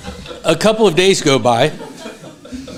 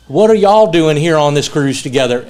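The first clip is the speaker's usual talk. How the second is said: louder imitated Southern preacher; Southern accent; 5 dB louder than usual. Preacher questioning two men on a cruise, imitated Southern accent. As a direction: ask it with a put-on Southern accent. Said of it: "Guy says in a very deep Southern accent".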